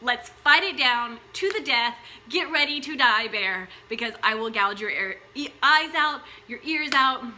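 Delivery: put-on a mother turning fierce to protect her baby; mock furious mother. Mother threatens the bear to protect her baby, mock fury. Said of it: "The woman gets all hot, all mad, and is like".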